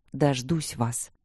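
very slow, soft promise; a hushed, restrained vow; quiet assurance. A narrator's reading. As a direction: speak softly and take your time. Guard quietly promises to wait.

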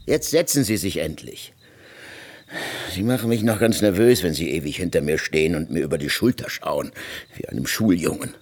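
irritated. Acted. Irritated at being watched from behind.

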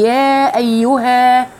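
"يا أيها" drawn out very slowly; slow tajweed "يا أيها"; tajweed demo. Shown as a demonstration. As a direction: stretch "يا أيها" in recitation. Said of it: "الألف هنا لم تتم".

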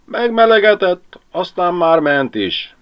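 Jóska lying to Mari, sleepy and yawning. Acted. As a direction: drawl it through a yawn.

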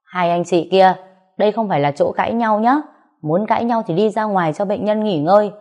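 a doctor snapping at noisy visitors; scolding. Acted. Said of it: "thò đầu vào quát".

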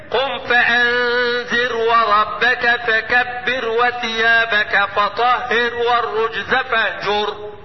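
slow chanted tajweed recitation; Quran recitation. Shown as a demonstration. Teacher recites verses for students, slow chanted. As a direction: recite slowly, drawing out each word.

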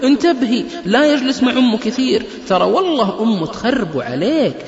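high, loud mock gossip warning; meddling neighbour woman. Woman warns her neighbour about the mother-in-law, mock gossip. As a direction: play a busybody whispering bad advice loudly. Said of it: "قالت".

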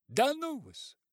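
high, loud spiteful brush-off. A narrator's reading. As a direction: snap it at him. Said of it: "злобно сказала нянька".

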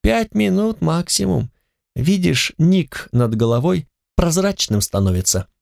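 high, callous overseer. Acted. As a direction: sneer it down at the prisoner. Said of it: "голос надзирателя".

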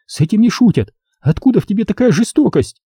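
high hurt woman's voice, reproachful; mild tearful reproach in a high woman's voice; Sonya, tearful. A narrator's reading. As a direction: accuse him through tears, pitched high. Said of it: "Слёзы заструились по щекам".

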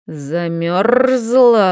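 медленный рычащий выкрик; прорычи слово медленно и грозно; рык дракона. Acted. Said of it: "рыкнул он". (медленный драконий рык)

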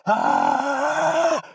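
piercing high scream; crazy scream. Acted. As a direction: scream like a madwoman to scare a bear. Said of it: "закричала, как сумасшедшая Гуля". (истошный крик «А-а-а!»)

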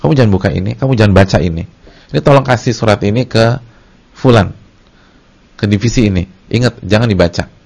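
lightly voiced boss handing over a secret letter; boss giving orders. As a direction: boss warning staff not to read the letter, mildly firm. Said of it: "atasan kita yang bilang".

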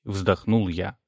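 ordinary delivery, nothing marked

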